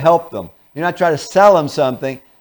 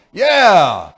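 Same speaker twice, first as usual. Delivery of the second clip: a louder, terse "Yeah"; mild antagonism; 4 dB louder, much slower than usual. Acted. Partner rising to antagonism, a touch louder. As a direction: snap back, a little irritated. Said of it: "They're in antagonism now".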